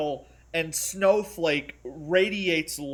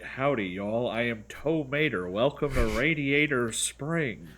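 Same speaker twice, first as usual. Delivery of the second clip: put-on Southern accent; 7 semitones lower, 4 dB quieter than usual. Audiobook narrator tries a Southern accent for Mater. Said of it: "He tries to do an accent".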